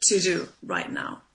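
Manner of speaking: slow, deliberate "What's the most useful thing"; slow self question. Shown as a demonstration. Coach repeating the question for listeners, slow and deliberate. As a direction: ask it slowly, weighing each word. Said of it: "ask yourself".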